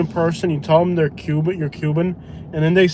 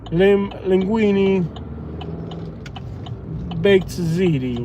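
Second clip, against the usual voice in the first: hammed-up Italian accent, rising higher, slow on Lamborghini; fake Italian; 3 semitones higher, slower than usual. Driver shows off fake Italian to passenger, hammed-up Italian accent. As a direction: list Italian words in a cartoon Italian accent. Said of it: "I told him I speak Italian".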